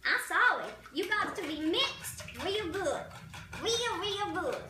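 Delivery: put-on slow, drawn-out old granny voice; old lady voice. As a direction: talk like a fussy old lady showing how to whisk. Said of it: "That's my old lady voice".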